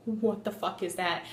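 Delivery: low, quiet mom voice; disapproving mom. Retold or imitated. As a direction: imitate a mom zeroing in, softly. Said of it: "zeroed in on me and was like".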